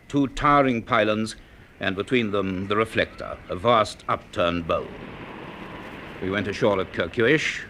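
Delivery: measured storyteller voice, unhurried and even; story narration. A narrator's reading. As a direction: read it like the narrator of a radio serial.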